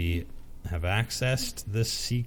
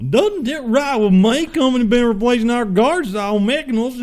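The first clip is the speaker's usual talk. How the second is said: much louder and much higher, thick hick twang; second take, a louder, over-the-top redneck guard; heavy redneck accent; 10 dB louder than usual. Acted. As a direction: crank the redneck all the way up and holler it. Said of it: "That's about twenty percent".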